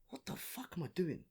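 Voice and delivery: quiet self-doubt. Retold or imitated. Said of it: "I'm just like".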